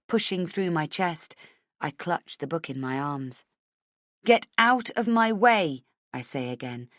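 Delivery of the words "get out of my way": slow, raised demand; unsure demand. Acted. Heroine ordering villain aside, slow and unsure. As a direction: force it out, faltering. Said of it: "don't feel so sure".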